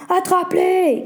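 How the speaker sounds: ordre lancé plus aigu; cri. A narrator's reading. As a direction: crier l'ordre de poursuivre. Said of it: "cria Marc à son ami". (Marc crie à son ami d'attraper les enfants)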